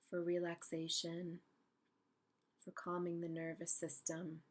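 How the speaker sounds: unhurried meditation guide with long pauses; calm, spacious guided-imagery voice. Real, not acted. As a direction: guide them gently into stillness, leaving space between phrases.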